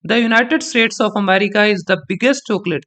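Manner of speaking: very slow, biggest punched; stress on biggest with a nod. Shown as a demonstration. Teacher demonstrating the nod on biggest. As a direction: nod as you hit biggest. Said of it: "मैं एक बार बोल के दिखाता हूं".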